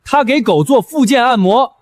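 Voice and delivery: fast, agitated protest; indignant challenge. Acted. Accuser challenging an inspector about vet licences, indignant. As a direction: argue the accusation with rising indignation. 举报人当场争辩质问.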